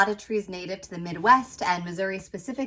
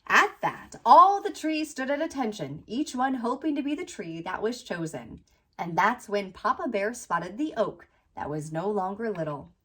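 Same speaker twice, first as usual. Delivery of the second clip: picture-book read-aloud, landing gently on the rhymes; storybook narration. A narrator's reading. Author reading her children's book about a little tree, storybook narration. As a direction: read to children with lilting, measured phrasing.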